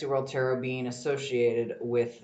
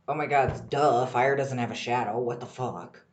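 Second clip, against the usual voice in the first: worked up; 4 dB louder than usual. Real, not acted. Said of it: "I'm getting all worked up and excited".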